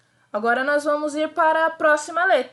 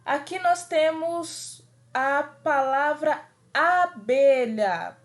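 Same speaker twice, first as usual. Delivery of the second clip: slow motion; 2 semitones higher, slower than usual. Shown as a demonstration. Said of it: "falando bem devagar".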